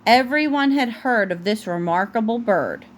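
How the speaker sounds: gentle storybook read-aloud; picture-book narration for a toddler; reading to a child. Acted.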